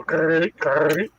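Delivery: rough rattling noise made with the mouth; short crunchy rattle sound effect; imitated rattle of broken Lego. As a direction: imitate loose pieces sliding in a box. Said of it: "you heard the Lego go".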